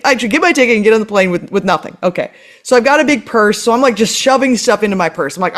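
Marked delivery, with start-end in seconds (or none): 0.0-2.0 fast, dry sarcastic echo; sarcastic agreement. Retold or imitated. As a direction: rattle it off mocking her advice. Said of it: "Yeah, you're right".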